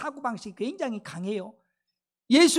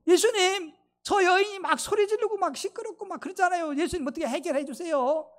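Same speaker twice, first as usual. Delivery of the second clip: complaining disciples; 6 semitones higher than usual. Retold or imitated.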